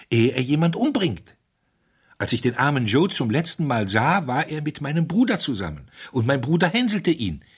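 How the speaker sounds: carried away by his own theory; wild excitement. A narrator's reading. The curate explains poor Joe to the doctor, wildly excited. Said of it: "mit einem wilden, aber merkwürdig seligen Lächeln".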